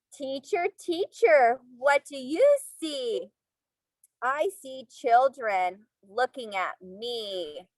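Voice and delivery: sing-song storybook reading; reading to children. Acted. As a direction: read aloud to little kids. Reading picture book to class.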